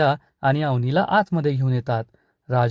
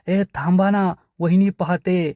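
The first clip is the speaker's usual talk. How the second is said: urgent shout; 4 semitones higher than usual. Acted. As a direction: yell at the brothers to stop the fight. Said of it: "धन्या जोरात ओरडतो".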